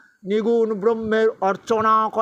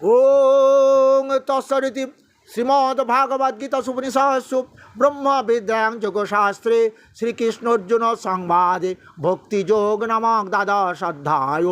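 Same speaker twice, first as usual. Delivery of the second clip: slow, measured chanting of scripture; Sanskrit verse recitation; slower than usual. Acted. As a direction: intone each verse with pauses. (ধীর লয়ে শ্লোক পাঠ)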